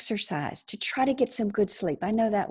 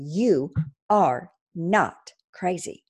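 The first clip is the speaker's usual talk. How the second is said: slow reassurance; 3 semitones lower, slower than usual. Shown as a demonstration. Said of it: "Let me say that again".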